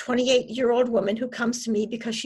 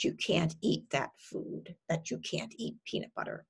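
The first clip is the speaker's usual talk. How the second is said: soft, low, matter-of-fact; quietly naming a mere thought; calmly reframed thought; 4 semitones lower, 7 dB quieter than usual. Shown as a demonstration. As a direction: take the alarm out of it. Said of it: "I have them reframe those thoughts".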